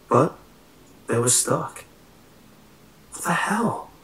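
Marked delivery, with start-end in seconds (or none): 3.1-3.9 breathy alarmed whisper. A narrator's reading. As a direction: hiss it under your breath. Hiding, door chained shut.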